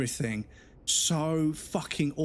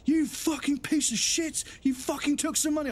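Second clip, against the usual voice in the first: much higher squawking mock rage; mock abusive caller; 12 semitones higher than usual. Rude caller swears at the call agent in high mock fury. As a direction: ham up a screeching irate customer.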